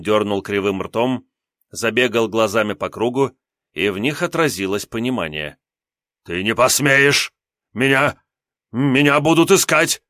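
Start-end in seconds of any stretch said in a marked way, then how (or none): 6.2-10.0 high, loud frantic imp refusal; a cowardly demon begging off; panicky little demon. Acted. Imp demon voiced in story. (визгливый испуганный демон)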